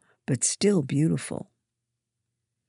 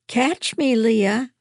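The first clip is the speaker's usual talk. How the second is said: high, loud call to a friend; playful yell; 9 semitones higher, 6 dB louder, slower than usual. A narrator's reading. Eva calls to her friend as she runs off, yelling. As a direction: yell it out high, inviting a chase. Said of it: "Eva yelled".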